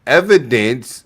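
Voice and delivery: slow, polished and measured; professional phrasing. Shown as a demonstration. Streamer shows Jasmine how a professional would ask, slow and measured. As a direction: model the proper way to ask, slowly. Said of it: "You might wanna say".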